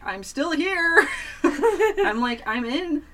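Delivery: high, loud, laughing exasperation; exasperated. Retold or imitated. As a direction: call out to a pestering cat, half laughing. Answering the cat, exasperated.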